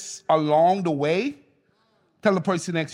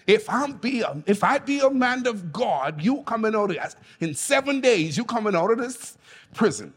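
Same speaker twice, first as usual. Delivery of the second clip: Bahamian accent. Shown as a demonstration. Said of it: "this is how they say it in the Bahamas".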